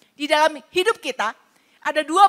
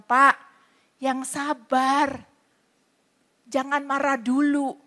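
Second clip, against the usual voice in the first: calming; 4 dB quieter, slower than usual. Retold or imitated. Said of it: "saya bilang".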